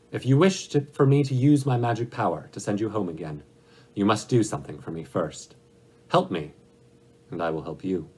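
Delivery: lightly voiced ruler laying down terms, loud phrase openings; a hint of a stern, authoritative wizard; great Oz.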